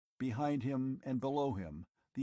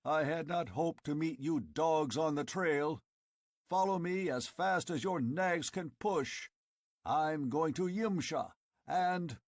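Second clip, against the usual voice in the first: booming, much higher and louder battle roar; 6 semitones higher, 3 dB louder than usual. Acted. Conan roaring at the tribesmen on the trail. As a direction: roar it out like a war chief. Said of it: "he roared".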